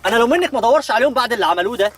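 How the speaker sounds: high, loud, fast incredulity; can't believe what you're hearing; shocked disbelief. Acted. Man shocked that her parents made her ride in the trunk.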